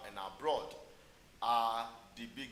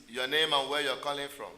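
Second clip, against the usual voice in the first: louder, clearer for a bad line; to someone hard of hearing; 2 semitones higher, 6 dB louder than usual. Real, not acted. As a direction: raise the voice over a bad phone line. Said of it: "Speak up, please".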